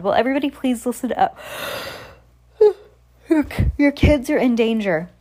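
announcing through mic. Acted. Addressing crowd through mic.

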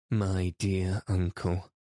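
"My dear uncle" slow, drawn out and lively; mildly animated appeal; with animation. Acted. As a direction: press the point with spirit. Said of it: "the old lady said with animation".

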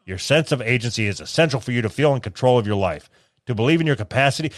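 lightly put-on therapist tone; mock self-help read. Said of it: "men don't fucking talk like this".

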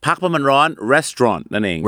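"restaurant" said slowly as rest-ron; teaching pronunciation. Shown as a demonstration. Teacher modelling "restaurant" for the podcast co-host. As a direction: spell out "restaurant" with the Thai-like ร้อน ending. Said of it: "restaurant ออกเสียงมันร้อนนั่นเองครับ".

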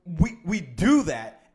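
slow, loud emphasis, still worked up; punched out slowly with lingering irritation; a little teed off. Real, not acted. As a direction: drag it out, mildly miffed and emphatic. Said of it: "I'm still a little teed off".

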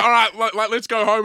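high, loud whiny mimic of a mate quitting early; mocking friend. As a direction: whine it like a lightweight mate giving up. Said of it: "picturing him ... going".

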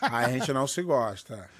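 grave e arrastado, com riso; rivalidade fingida, rindo. Pretend. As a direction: diga devagar, segurando o riso. Piada sobre rivalidade fingida, rindo. (fingindo inimizade, em tom de piada)

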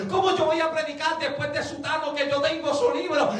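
protesta agobiada, aguda y atropellada; quéjate a Dios como quien no da crédito; pánico actuado. Retold or imitated. Acted panic before God. (pánico fingido ante el reto)

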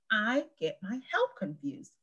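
drawn-out quoted line; slow deliberate quote. Retold or imitated. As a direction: quote it slowly, pointedly. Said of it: "instead of".

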